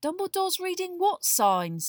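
high, loud, slow puzzled question; perplexed Ron. A narrator's reading. Boy puzzled by the letter, perplexed. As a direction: ask it slowly, baffled. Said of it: "looking perplexed".

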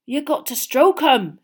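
slow, loud, matter-of-fact giant; it's plain as day; obvious Hagrid. A narrator's reading. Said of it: "as though this was the most obvious".

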